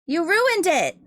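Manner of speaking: high loud playful outrage on ruined; mock outrage. Real, not acted. Streamer scolding a mod for spoiling the reveal, loud mock outrage. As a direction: yell You ruined it at the mod, half laughing.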